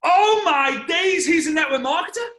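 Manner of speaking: imitating dad's sudden shout; top-of-voice shout. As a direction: blurt it out at full volume. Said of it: "at the top of his voice ... just shouts out".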